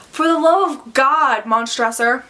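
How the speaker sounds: desperate plea read out from a story; pleading. Acted. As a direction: beg for mercy, rising in pitch on the plea. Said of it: "he's, like, pleading for help".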